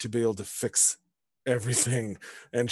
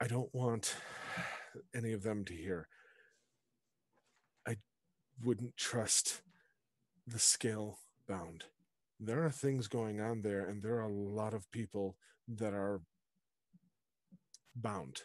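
very hushed, barely audible, confiding murmur; 2 semitones lower, 12 dB quieter than usual. A woman puts an arm around the listener and pulls them away, very quiet. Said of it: "And very quietly".

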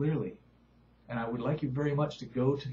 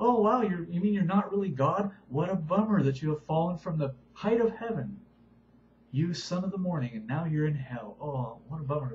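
mocking, sarcastic taunt, pitched up; 4 semitones higher, 4 dB louder than usual. Retelling how Israel taunts a man who exalted himself as God: acting out a sarcastic taunt. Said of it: "They're being sarcastic".

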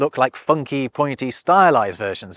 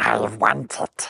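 rough, creaky, croaking creature rasp, cringey; 2 semitones lower, 4 dB quieter than usual. Describing a rune-inscribed coin-like disc, the speaker does a cringe Gollum voice. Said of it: "[In cringe Gollum voice]".

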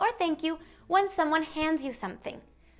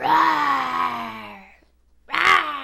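scary, loud, rough, drawn-out tiger roar; 2 semitones lower, 5 dB louder than usual. Showing what sound a tiger makes: scary tiger roar. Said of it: "That's a scary tigre".

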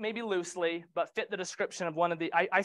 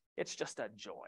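dry heavy sarcasm, nearly whispered; 10 semitones lower, 13 dB quieter than usual. Talking about a Utah Housing deal under contract, very sarcastic. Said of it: "I say that very sarcastically".

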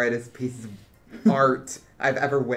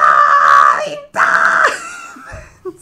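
squeaky, shrill cartoon shout, high and swooping; 13 dB louder than usual. Asked to prove it, showing his Toad voice; bad Toad impression. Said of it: "I have a bad Toad impression".

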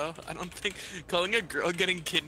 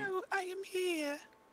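put-on British accent, pitched high. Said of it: "Can you do another British accent?".

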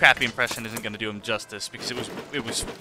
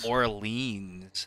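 mock outsider pronunciation, quieter; 2 semitones lower, 8 dB quieter than usual. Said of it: "people like you and me that are just like".

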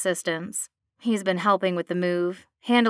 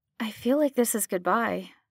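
quiet murmured words; 3 semitones higher than usual. She speaks as they head out into the cold, murmuring. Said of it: "she murmurs".

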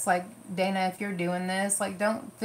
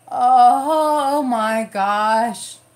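high, hurting cry; 5 semitones higher, 12 dB louder than usual. Trying a rose gold shimmer with a finger, sounding in pain. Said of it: "I sound like I'm in pain".

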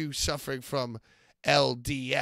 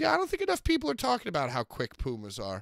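acted matter-of-fact tone, pitched up; 7 semitones higher than usual. Retelling what Pat said on air during the broadcast, imitating Pat's matter-of-fact tone. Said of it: "so matter of factly said".

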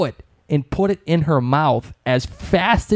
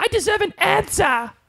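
put-on very high-pitched British girl voice. Retelling the moment Claire runs up to Dougal: Claire, British girl accent. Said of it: "you like my British girl accent again?".

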